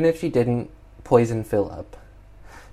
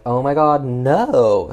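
mock horror; 3 semitones higher, 5 dB louder, slower than usual. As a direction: cry out as if watching her fall. Voices horrified man seeing her fall.

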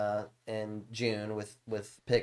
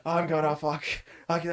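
higher-pitched imitated raging; mock rage; 4 semitones higher than usual. Streamer imitating raging kid in guild chat, mock rage. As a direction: sputter a half-finished angry outburst. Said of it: "he gets rage".

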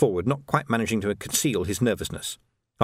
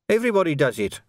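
higher-pitched defensive outburst; acted corporal's protest, pitched up; bursting out; 7 semitones higher, 4 dB louder, faster than usual. A narrator's reading. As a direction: blurt it out in self-defence. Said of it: "Quirk burst out".

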